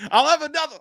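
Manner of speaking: booming high god-of-thunder voice; Thor voice. Retold or imitated. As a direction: slam it down like Thor. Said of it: "Do the Thor thing".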